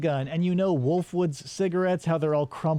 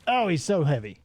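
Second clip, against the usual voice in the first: strained whisper; 3 semitones higher than usual. Real, not acted. Dragging body in game.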